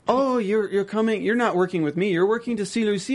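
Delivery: hammed-up taunting quote; mocking taunt. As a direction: put on a menacing character's taunt, rising to the end. Acting out Carlito's twisted taunt.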